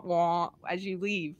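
ordinary talk, nothing marked

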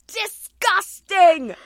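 high, loud, drawn-out disgusted cry; exaggerated disgust. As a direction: draw it out loudly in mock horror. Retold reaction to seeing him.

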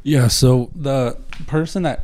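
parched, dry-mouthed voice. Real, not acted. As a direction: talk through cotton mouth. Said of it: "You sound a little parched".

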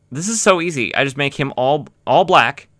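lightly voiced smug artist; mock lazy colorist. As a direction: play the colorist pleased at an easy job. Imagined colorist talking lazily.

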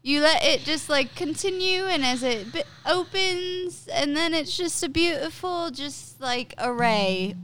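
lilting put-on British accent; mock-poetic British accent, pitch swinging up; shaky attempt at a British accent. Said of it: "You fucked up my British accent".

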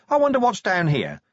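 high, loud yelled challenge; shouted, high-pitched call into the dark. Acted.

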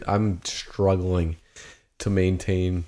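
talking through a burning mouth; strained, mouth on fire from hot wings; mouth burning from spicy food. Real, not acted. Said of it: "while my mouth is burning away right now".

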